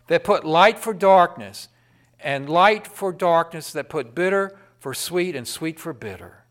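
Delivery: punchy, loud scripture preaching; hard-hitting sermon delivery; forceful preaching. Acted. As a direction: drive the warning home from the pulpit.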